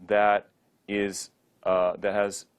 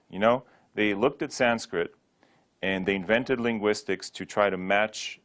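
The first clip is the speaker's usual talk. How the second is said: ordinary talk, nothing marked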